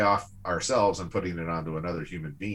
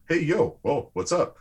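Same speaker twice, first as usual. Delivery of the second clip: higher, a quick offhand hey-yo; mock casual greeting; 8 semitones higher, 4 dB louder than usual. Contrasting a hollow greeting with real excitement, mock offhand hello. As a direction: toss it off like a shallow hello. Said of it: "Not just".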